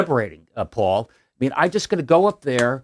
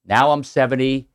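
Kennedy Boston accent impression. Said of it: "You do the accent well".

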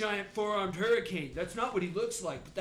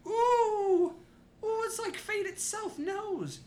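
high loud delighted squeal; thrilled by the bad roll; gleeful ooh; 5 dB louder, slower than usual. Real, not acted.

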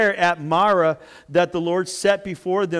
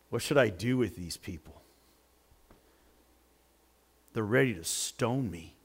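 crying out; 8 semitones lower, 8 dB quieter than usual. A narrator's reading. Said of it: "Moses cried out to the Lord".

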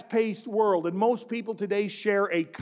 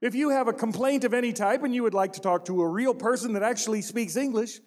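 lightly voiced recorded phone menu, quick; automated phone menu. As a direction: rattle it off like a hold message. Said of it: "automated voice say".

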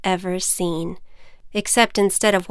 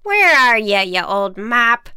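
grumbling witch; 3 semitones higher, 4 dB louder than usual. Acted. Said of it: "she said".

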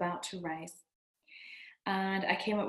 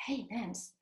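lightly warm, a little higher praise; encouraging inner voice; 3 semitones higher than usual. Retold or imitated. Inner voice praising Nancy as a mom, mildly warm and upbeat. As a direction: cheer yourself on gently. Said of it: "when I go to see your level and I hear".

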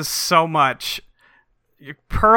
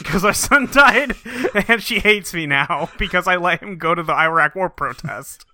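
laughing; 3 semitones higher than usual. Real, not acted. Co-host recapping the dead-son plot, laughing. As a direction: break into laughter mid-sentence. Cracking up while recapping the scene.

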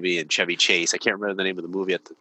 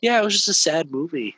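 put-on answering the boys; 10 semitones higher, 5 dB louder than usual. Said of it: "And I'm like".

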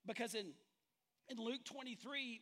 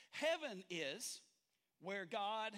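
slow build-up; 4 dB louder, much slower than usual. Shown as a demonstration. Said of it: "here's your definition today".

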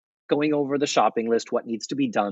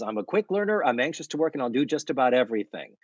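put-on eager kid; faster than usual. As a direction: sell yourself like a keen kid. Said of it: "And he says".

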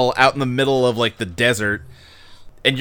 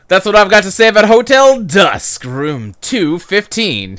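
louder, then the title drawn out slowly; hammed-up slow title reveal; showy sign-off; 4 semitones higher, 4 dB louder than usual. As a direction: stretch the title like a mock-grand announcement. Grand sign-off on the game's title.

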